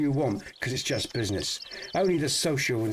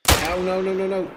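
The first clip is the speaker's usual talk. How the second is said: dismayed oh no; 6 semitones higher, 6 dB louder than usual. Real, not acted. Missed shot in hunting game.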